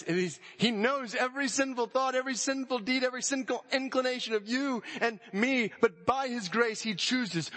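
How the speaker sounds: high, impassioned preacher's call; soaring preaching. Acted. Preacher marveling at grace before the church, high and impassioned. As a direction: lift the voice in wonder at grace.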